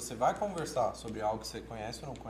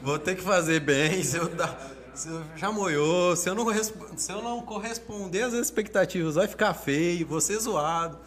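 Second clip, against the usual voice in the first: racing through his fears as they came; retold nervous thoughts; 3 semitones higher, 4 dB louder than usual. Teacher retells his panic on arriving to the class, mildly anxious. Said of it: "Tudo isso passou na minha cabeça".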